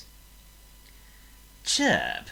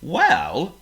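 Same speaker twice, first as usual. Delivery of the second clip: higher, louder drawn-out well; a slow pig pondering; slow-witted pig voice; pig thinking aloud; 10 semitones higher, 10 dB louder than usual. Acted. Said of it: "said Oink, thinking".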